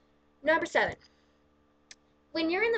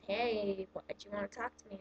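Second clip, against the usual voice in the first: quiet retold reply; 2 semitones lower, 7 dB quieter than usual. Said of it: "And I'm just".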